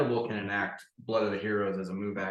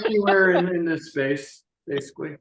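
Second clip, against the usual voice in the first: excited; 9 semitones higher, 9 dB louder than usual. Real, not acted. GM answers amid laughter.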